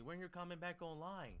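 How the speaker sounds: high, loud whiny voice; mock pleading text voice; mocking a needy follower. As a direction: whine it like a begging follower. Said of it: "they gonna be texting me".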